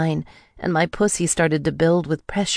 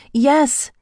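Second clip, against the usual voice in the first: very high, raised cry; gasped; 11 semitones higher, 4 dB louder than usual. A narrator's reading. Rika overwhelmed, gasped high and urgent. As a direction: let it leap out as a high gasp. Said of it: "I gasped".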